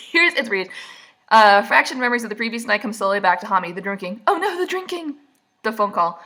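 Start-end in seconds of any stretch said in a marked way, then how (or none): 4.3-5.2 high-pitched mock horror; mock dismay. Reacting to remembered drinking, high mock dismay. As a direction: gasp it out in fake alarm.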